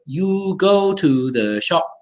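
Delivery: put-on slow, evenly weighted Cantonese-accented English; syllable-timed Hong Kong English, each word separate. Teacher imitating people in Hong Kong, Cantonese accent. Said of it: "Cantonese, if you go to Hong Kong, people will be like".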